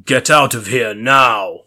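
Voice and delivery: slow, loud commanding hero voice, creaky. A narrator's reading. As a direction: order her out like a hero, creaking. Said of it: "using my hero voice that almost surely sounded as creaky".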